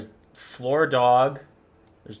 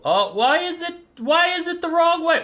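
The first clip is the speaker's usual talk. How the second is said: high-pitched dismay; 4 dB louder than usual. Real, not acted. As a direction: squeal of dismay, far above usual pitch. Photo shows up sideways.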